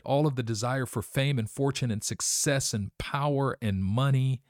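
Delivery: high, strained voice as if weeping; imitating a broken man in tears; retold weeping. Fugitive millionaire weeping over his lost family, imitated in a high, tearful voice. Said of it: "He's just weeping and crying and saying".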